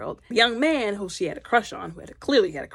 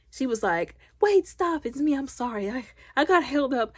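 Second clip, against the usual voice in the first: retold plea; 5 semitones higher than usual. Retold character begging a rider.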